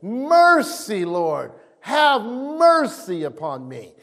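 mild acted plea, high then slowing; crying out. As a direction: start high, stretch out the plea for mercy. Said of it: "When you cry out for mercy".

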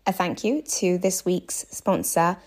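clear, measured podcast ad read; sponsor read. Real, not acted. Host thanks this week's podcast sponsor, scripted ad read. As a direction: read out the sponsor message with steady emphasis.

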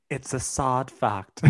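attempted British accent, close to laughing. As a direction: try a British accent and start cracking up. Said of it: "read this in a British accent".

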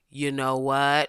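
slow, calm and contained. Acted. Reading out a listener's line before cussing, very calmly. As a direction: say it very calmly, dragged out slowly. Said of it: "Autumn Woodley said very calmly".

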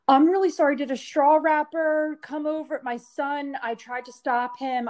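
mother mortified by her son's straw; high apologetic voice. Retold or imitated. Apologizing to strangers, retold.

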